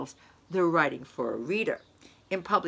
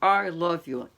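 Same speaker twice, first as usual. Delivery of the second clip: louder, pressed "I love you"; emphatic tone; 4 dB louder than usual. Shown as a demonstration. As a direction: push it out firmly, a bit louder. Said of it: "in so many different tones".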